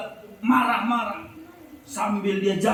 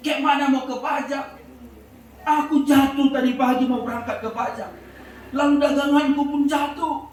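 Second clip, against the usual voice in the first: upset retort; 5 semitones higher than usual. Retold or imitated. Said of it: "dengan hati yang masih emosi".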